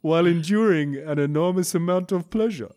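a light mock Transylvanian accent. Reading a porn-shaming scam email in a Transylvanian accent. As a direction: read it like a hammed-up Transylvanian count. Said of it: "It's gone a bit Transylvanian".

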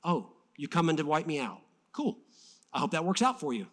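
casual, understated shrug of a voice; totally chill. Retold or imitated. Elisha facing the army, totally chill. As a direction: play unthreatened and unbothered. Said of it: "was totally chill".

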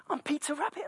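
put-on high, bright little-boy voice; toddler voice. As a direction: play the proud toddler announcing himself. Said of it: "He's going".

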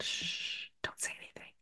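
breathless hush, no voice at all; shushing whisper. Retold or imitated. Shushing husband in kitchen so daughter won't hear, whispered. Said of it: "I put my finger to my lips and I just said".

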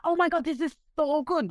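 high, delighted gush over a drink. Retold or imitated. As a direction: rave about the Bloody Mary. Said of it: "This is me talking to the".

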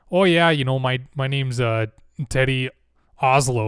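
put-on light Minnesotan accent, timid army man; Fargo-style Minnesotan lilt, lifted at the start; Teddy. Timid army man introducing himself, Minnesotan accent. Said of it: "talked with an accent".

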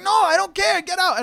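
high, loud mock dismissal; imitated yelled refusal. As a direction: act out a frantic refusal. Retold employee refusing him.

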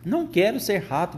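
high-pitched protesting cry; berrando. A narrator's reading. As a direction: bawl the refusal like an upset boy, pitch up. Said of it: "berrava o Bruno". (berro agudo de protesto)

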